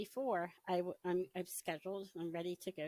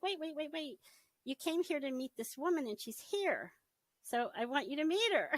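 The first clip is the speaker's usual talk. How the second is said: eager insistence; 7 semitones higher, 4 dB louder than usual. Retold or imitated. Woman urgently stops her leaving.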